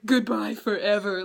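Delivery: a touch of hammed-up melodrama; lightly mocking an over-the-top goodbye; mock dramatic farewell. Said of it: "he's being so dramatic about it".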